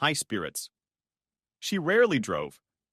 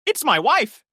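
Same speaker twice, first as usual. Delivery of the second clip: trembling voice; 10 semitones higher, 6 dB louder, slower than usual. Acted. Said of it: "he answered in a trembling voice".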